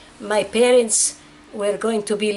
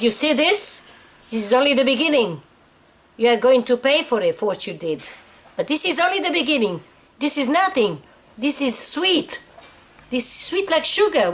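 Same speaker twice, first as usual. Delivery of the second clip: mock menacing threat; 5 semitones higher than usual. Retold guard threatening her.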